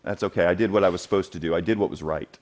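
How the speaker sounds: understated, modest acceptance; humble. Acted. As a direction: wave off the praise in a settled voice. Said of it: "Very humble here".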